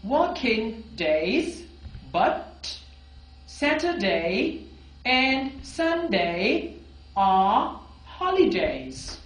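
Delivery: very slow, drawn-out drill sentences; slow model reading. Shown as a demonstration. Teacher reading model sentences slowly to students. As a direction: read each phrase slowly for learners to copy.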